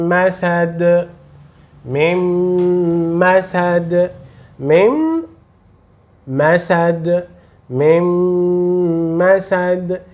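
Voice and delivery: slow drilled Arabic syllables with long nasal hum; Arabic demo. Shown as a demonstration. Teacher drills Arabic pronunciation for student: slow, nasal. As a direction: chant each syllable slowly, nasal held. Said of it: "você vai pronunciar mim".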